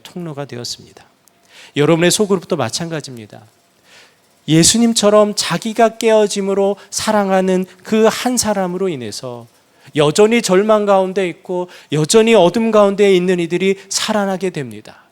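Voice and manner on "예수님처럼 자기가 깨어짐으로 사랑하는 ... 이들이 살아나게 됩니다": louder, rising preacher's push; fervent preaching. Acted. Preacher urging the congregation, fervent and louder. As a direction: drive the point home to the church.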